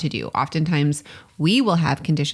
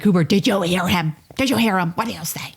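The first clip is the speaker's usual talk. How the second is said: excited prompting; 3 semitones higher than usual. Retold or imitated. Parent urging child in story.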